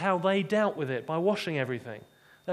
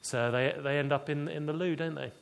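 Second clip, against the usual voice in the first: lower, sheepish chuckling reply; chuckling disciples; 3 semitones lower than usual. Retold or imitated. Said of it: "they all begin to chuckle and say".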